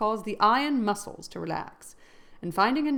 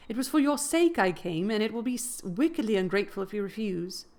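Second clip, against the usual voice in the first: urgent plea; 2 semitones higher than usual. Acted. Catherine pleads with Linton.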